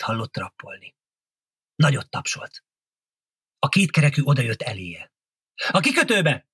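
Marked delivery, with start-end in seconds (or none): 5.7-6.5 high-pitched command to a driver; mild shout, pitched well up; calling out. A narrator's reading. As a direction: call out the destination. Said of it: "kiáltotta".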